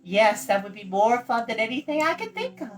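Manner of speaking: put-on high, bright girlish voice, proud of her ancestry; young girl Eilonwy. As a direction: play the chattering young princess.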